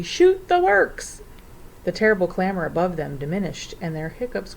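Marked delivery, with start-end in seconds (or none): 0.0-1.2 very high, loud, drawn-out shriek; ferocious shriek. A narrator's reading. Wiffle bird flying around excitedly, shrieking ferociously. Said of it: "shrieking ferociously".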